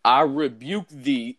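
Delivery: slow, drawn-out solemn rebuke; slow mock-exorcism command; mock exorcist. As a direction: intone it slowly like casting out a demon. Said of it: "went in there and said".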